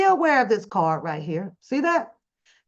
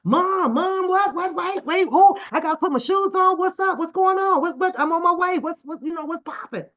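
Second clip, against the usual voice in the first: high, frantic, rushed mom-calls; panicked daughter; 7 semitones higher, 3 dB louder than usual. Retold or imitated. Daughter calling her mom in a panic, high and frantic. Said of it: "her tone has changed".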